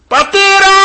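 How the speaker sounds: loud, high, drawn-out cry to the Father. Acted. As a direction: call out desperately at the top of the voice. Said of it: "Φώναζε". (δυνατή κραυγή ικεσίας)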